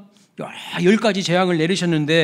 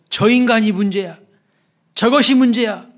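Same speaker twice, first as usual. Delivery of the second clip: raised, higher-pitched accusation; acted fault-finding, pitched up; condemning others; 5 semitones higher, 4 dB louder than usual. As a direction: point the finger and blame. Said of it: "남 비판하고 남 지적하고 남 정죄하기".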